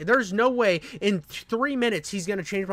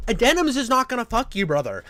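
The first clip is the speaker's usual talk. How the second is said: higher and louder, leaning hard on Denims; exasperated rant; 4 semitones higher, 5 dB louder than usual. Real, not acted. Scolding the streamer, an exasperated loud rant. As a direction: throw it at him, fed up.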